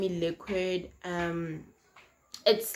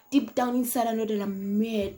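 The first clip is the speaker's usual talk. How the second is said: repeated louder with rising anger; fuming repeat; 3 semitones higher, 4 dB louder than usual. Retold or imitated. Telling the guy she's mad, said louder and fuming. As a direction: lean in hard, she's furious inside.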